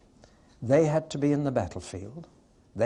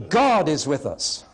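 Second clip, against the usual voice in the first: slow, God louder and falling; repeating the first option for a vote, God stressed; 3 semitones higher, 5 dB louder than usual. Shown as a demonstration. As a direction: land on God. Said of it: "Let's take a quick vote".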